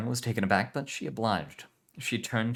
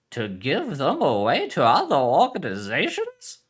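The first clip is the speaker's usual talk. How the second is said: put-on Spanish accent; 6 semitones higher, 8 dB louder, slower than usual. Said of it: "Spanish heritage".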